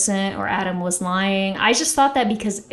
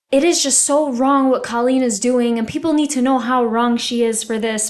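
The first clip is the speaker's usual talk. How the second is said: mildly indignant, emphatic imitation of moral outrage; self-righteous; 3 semitones higher, 3 dB louder than usual. Imitating her speaking to Adam about Colleen, mildly self-righteous. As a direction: mimic someone taking the moral high ground. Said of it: "like, a sense of self-righteousness".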